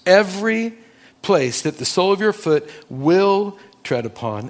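EVERY lifted high, rest read firmly; emphasis on every. Shown as a demonstration. Pastor stressing the promise to his congregation, emphatic. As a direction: lean hard on the word Every.

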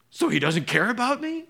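a believer protesting he isn't cared for; hurt outcry. Pretend. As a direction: cry it out, feeling abandoned.

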